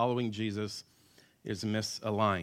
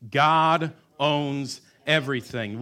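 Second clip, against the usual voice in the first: slow, louder chant with the crowd; louder together; 6 dB louder, slower than usual. Shown as a demonstration. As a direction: proclaim it aloud. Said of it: "Would you say it with me?".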